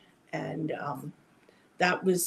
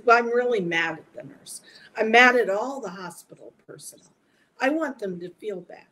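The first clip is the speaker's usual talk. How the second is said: higher and louder, fast, fed-up complaint; ranting about the hospital staff; indignant outburst; 4 semitones higher, 5 dB louder than usual. Retold or imitated. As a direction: huff it out like a wronged patient. Telling off father, furious at nurses.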